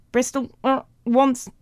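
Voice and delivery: choppy, high, loud recorded words; disjointed, one word at a time; spliced tape playback. A narrator's reading. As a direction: imitate a jerky edited tape. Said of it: "went Mo's voice".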